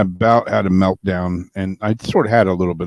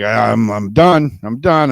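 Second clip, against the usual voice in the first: fed up, louder on each "done"; retold exasperation; 3 semitones higher, 6 dB louder, slower than usual. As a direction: re-enact reaching your limit, loud and emphatic. Retells being fed up in store.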